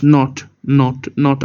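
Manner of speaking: real stumble, repeating the word; stuttering. Real, not acted. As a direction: get stuck and restart on one word. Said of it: "I was stuttering".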